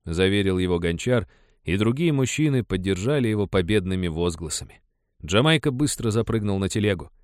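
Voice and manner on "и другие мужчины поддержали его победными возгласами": ordinary delivery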